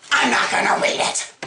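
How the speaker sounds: sudden loud, high, rasping yell; harsh outburst of refusal; shouted refusal. Real, not acted. Reader refuses to read another chapter.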